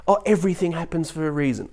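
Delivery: airy mimicry of empty comfort; mock platitude.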